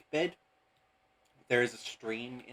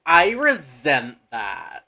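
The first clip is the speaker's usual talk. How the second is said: put-on slow, loud offended valley girl; drawn-out huffy valley girl line; 11 dB louder, much slower than usual. Annie speaks, friends tease her.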